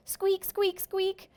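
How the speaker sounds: high squeaky hamster voice; hamster squeaks. Acted. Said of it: "a long stream of squeaks".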